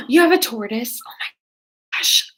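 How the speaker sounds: excited gasp. Real, not acted. Excited seeing a pet.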